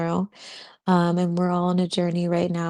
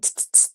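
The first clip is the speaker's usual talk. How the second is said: tongue click; 11 dB quieter, faster than usual. Retold or imitated. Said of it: "And he's like".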